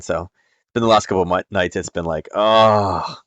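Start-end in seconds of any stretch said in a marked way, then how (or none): 2.3-3.2 long, drawn-out exasperated groan; weary groan. Retold or imitated. Dad worn out by sleepless nights, long weary groan.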